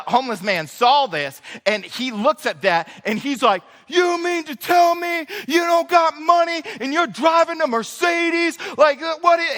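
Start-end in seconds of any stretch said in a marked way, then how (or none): 3.9-9.5 high, indignant mock outrage; retold angry screaming. Homeless man yells at man getting into Mercedes, high mock outrage. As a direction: shout it like you can't believe a Mercedes. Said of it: "he starts screaming".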